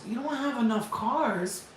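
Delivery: slow disbelieving repeat, falling on don't; incredulous echo. Retold or imitated. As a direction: drag it out like you can't believe it. Repeating dealer's excuse in disbelief.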